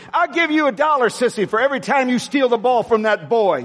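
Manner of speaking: high, pushed shout at the court; sideline yelling. Retold or imitated. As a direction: holler the offer across the gym. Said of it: "this is what I used to do with Kristen".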